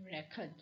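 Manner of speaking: record with stress on the first syllable, RE-cord; noun stress on record. Shown as a demonstration. Lecturer showing students the example word, record stressed on its first syllable. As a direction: say record as the noun, REC-ord. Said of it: "When it will be a noun".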